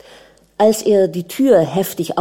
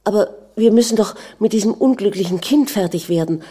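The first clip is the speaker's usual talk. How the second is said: ordinary delivery, nothing marked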